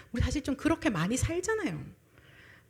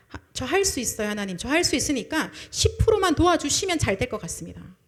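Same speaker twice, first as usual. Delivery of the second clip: cocky self-assurance; 2 semitones higher, 5 dB louder than usual. Retold or imitated. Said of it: "하나님이 좀 더 기다려 주시겠죠".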